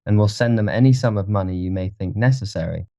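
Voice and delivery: mildly bored gentleman. A narrator's reading. Dorian asks about the dead man, mildly bored. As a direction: offer help with understated indifference. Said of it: "asked Dorian, looking bored".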